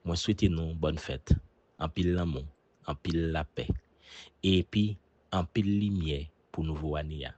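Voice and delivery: Haitian Creole wish in a Haitian accent. Shown as a demonstration. Ambassador offers a holiday wish, in his Haitian accent. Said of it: "dans mon accent haïtien".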